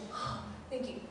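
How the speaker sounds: breathy whisper of relief; whispered thanks, half to herself. Retold or imitated. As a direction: murmur it under your breath, relieved. Relieved aside to colleagues.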